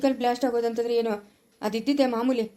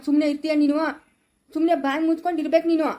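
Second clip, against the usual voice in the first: angry scolding; 3 semitones higher, 3 dB louder than usual. Acted. Father scolding daughter for phoning the in-laws, angry. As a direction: order her to shut her mouth.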